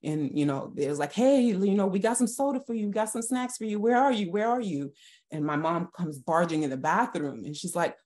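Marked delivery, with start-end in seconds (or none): 1.1-4.9 higher, quick call to a missing sister; siblings calling out. Retold or imitated. Siblings looking for their sister, calling out. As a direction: imitate kids calling round the house, higher-pitched.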